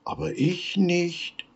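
very high peeping chick voice; baby chick. A narrator's reading. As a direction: peep it like a tiny chick. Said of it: "piepste das Küken".

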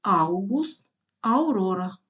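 "аугуст, аурора" opening on a gliding AU; AU diphthong. Shown as a demonstration. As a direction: start "аугуст" and "аурора" with AU in one syllable.

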